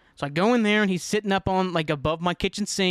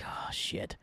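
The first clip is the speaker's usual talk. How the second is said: whispered, breath-only curse; hushed dread; 11 dB quieter than usual. Retold or imitated. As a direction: mutter a worried curse under your breath. Bird has gone quiet, dreading it.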